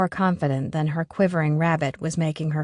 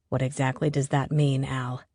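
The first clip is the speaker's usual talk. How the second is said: Finn; 5 semitones lower, 5 dB quieter than usual. A narrator's reading. Finn, cold and low.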